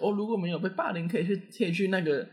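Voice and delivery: mock flag-raising lecture tone; imitating school officials. School staff lecturing students at the flag ceremony, mock announcement voice. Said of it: "升旗的时候还讲说".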